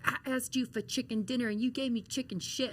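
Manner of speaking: a hint of the disappointed coach; Dusty Rhodes. Wrestler retells her mentor's verdict on her promo, lightly imitated scolding. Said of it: "And he was like".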